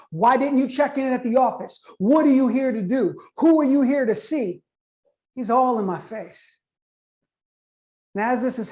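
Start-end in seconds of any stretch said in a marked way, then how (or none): 0.1-4.6 imitated interrogation, mildly raised; blazing questions. Golf-cart man grills the visitor about the office, mock yelling. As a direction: fire off questions like an irate man, not full volume. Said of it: "He is blazingly giving me these questions".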